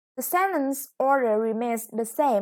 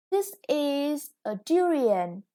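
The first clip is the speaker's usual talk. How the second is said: durian, first syllable stressed, said slowly; teacher modelling the stress of durian; 3 semitones higher, slower than usual. Shown as a demonstration. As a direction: land on the DU of durian. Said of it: "The stress is on the first syllable".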